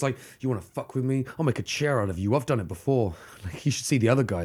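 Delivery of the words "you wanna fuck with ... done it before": lightly acted tough-guy threat; mock intimidating. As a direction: threaten quietly, half in jest. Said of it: "he had intimidated the guards".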